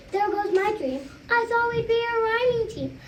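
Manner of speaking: a touch of dismay, voice rising on the dream; cried out. A narrator's reading. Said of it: "Monkey cried".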